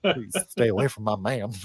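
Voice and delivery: disapproving tone. Acted. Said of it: "a disapproving dad voice".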